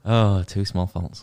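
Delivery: slow teasing drawl of "two small faults"; mocking echo. Real, not acted. Friend teasing the euphemism, slow and mocking. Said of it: "you're fucking awful".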